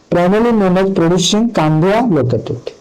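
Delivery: slow, careful question read-out; reading a quiz question. Acted. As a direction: read each word out deliberately. Reads quiz question aloud slowly. (ଧୀରେ ଧୀରେ ପ୍ରଶ୍ନ ପଢ଼ିବା)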